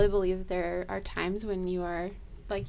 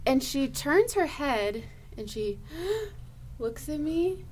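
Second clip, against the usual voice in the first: usual speaking voice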